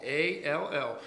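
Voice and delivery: "A L L" spoken letter by letter; spelled out. Shown as a demonstration. Preacher spelling out the word for the church, deliberate. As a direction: spell out "A L L", one letter at a time. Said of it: "it says all".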